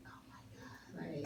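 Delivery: hushed, slow starstruck whisper; retold whispered disbelief; awed whisper. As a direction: breathe it out in stunned awe. Acting out silent starstruck awe.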